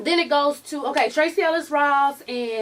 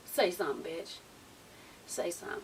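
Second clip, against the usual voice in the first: quiet menacing taunt, softer; low dare; 7 semitones lower, 13 dB quieter than usual. Retold or imitated. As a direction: dare them under your breath.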